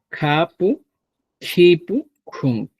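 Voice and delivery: Kapu, kipu, kunku with a strong puff of air after the k; breathy aspirated kapu, kipu, kunku. Shown as a demonstration. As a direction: aspirate the k clearly. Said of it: "expresiones más aspiradas".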